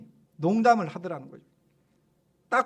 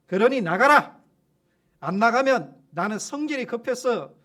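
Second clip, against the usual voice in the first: loud rebuke; 4 dB louder than usual. Retold or imitated. Pastor scolding the demon, loud rebuking shout. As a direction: tell the demon off with full force. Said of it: "하고 소리를 쳤답니다".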